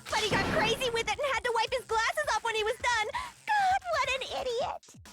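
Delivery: fast, high excited rant. Acted. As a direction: read it all worked up. Friend reads Hina's lines excitedly.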